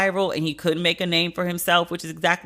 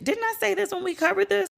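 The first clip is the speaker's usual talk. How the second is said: exasperated; 13 semitones higher than usual. Real, not acted. Exasperated at repeated point.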